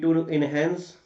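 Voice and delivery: very slow, word-by-word dictation; dictating. Shown as a demonstration. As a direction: spell out the answer phrase by phrase. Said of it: "आप ये भी लिख सकते हो".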